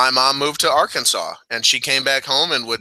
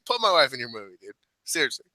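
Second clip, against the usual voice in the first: soft, understated imitation of a lowered voice; 7 dB quieter, faster than usual. Quoting the wrestler's plea about his wife, lowered voice. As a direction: drop your voice, mimicking a quiet aside. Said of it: "lowered his voice".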